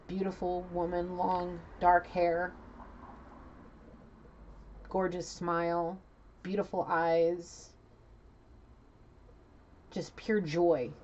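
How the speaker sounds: slow, spaced-out phrases, lingering on each; unhurried, savoring delivery; slow admiring description. Real, not acted. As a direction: linger over each feature. Describing his beloved's picture slowly.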